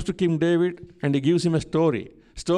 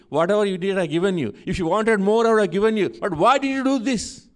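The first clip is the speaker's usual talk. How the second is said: rising rebuke; 2 semitones higher than usual. Retold or imitated. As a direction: build the rebuke up to an outraged question. Prophet rebukes King David.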